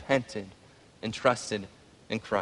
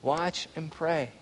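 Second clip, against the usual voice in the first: hushed command; 8 dB quieter, much slower than usual. Acted. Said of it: "And Jesus says".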